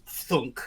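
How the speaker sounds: spoken sound of weight dropping; imitated thunk. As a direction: drop it like a heavy landing.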